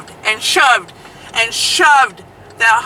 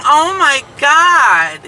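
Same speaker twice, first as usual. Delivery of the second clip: shocked gasp; 6 semitones higher, 5 dB louder, much slower than usual. Retold or imitated.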